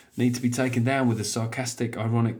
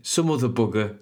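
put-on Brummie accent. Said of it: "that's such a Brummy word".

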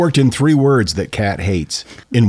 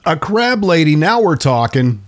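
amused delight; 6 semitones higher than usual. Real, not acted. Delighted at the crab lady.

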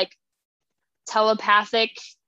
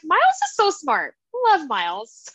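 high-pitched fangirl gush; 6 semitones higher than usual. Retold or imitated. Fan gushing about a favourite character, high and excited. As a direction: swoon over him, pitch jumping up.

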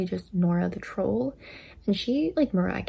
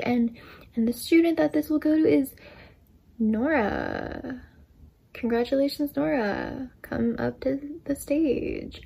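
mildly acted shock, higher and halting; mock a stunned announcer forcing out congratulations; shocked principal; 4 semitones higher, slower than usual. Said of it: "was shocked".

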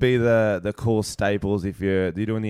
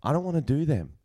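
a hint of substitute teacher, pitched higher; lightly put-on, higher classroom voice; teacher addressing class; 5 semitones higher than usual. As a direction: confide in the class as their cool teacher. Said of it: "give me a class and I'm gonna get the best lesson possible".

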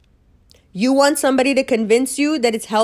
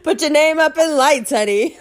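high, sing-song mock flattery through a laugh; a laughing mock-sweet honey; 7 semitones higher than usual. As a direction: coo it like a fake-nice adviser.

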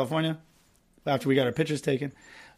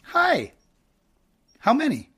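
very high, pitched-up hostess voice; pretend hostess; 8 semitones higher, slower than usual. Host as hostess asking a customer for the party size, high put-on voice. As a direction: greet in a falsetto hostess act. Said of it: "How about this?".

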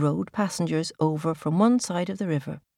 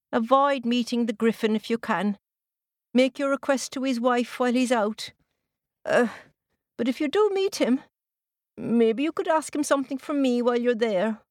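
put-on raised old farmer warning; 5 semitones higher than usual. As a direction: warn like a kindly old farmer. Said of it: "the old farmer gave some warning".

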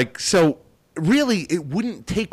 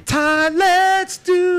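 dramatic announcer voice; 3 dB louder, much slower than usual. Pretend. Playful time travel voice.

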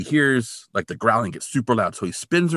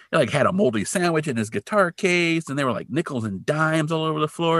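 put-on funny-talking old guy; 8 semitones higher than usual. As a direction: play the odd old-timer griping about the hippie. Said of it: "the guy talks funny".

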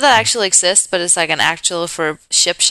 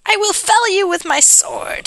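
high hammy sword threat; goofing off script with a high knight boast; mock knight voice; 12 semitones higher than usual. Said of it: "I'm going off script".

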